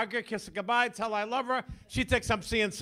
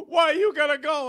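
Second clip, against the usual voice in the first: mother's plea; 5 semitones higher, 7 dB louder than usual. Retold or imitated. Crying mother voiced in story.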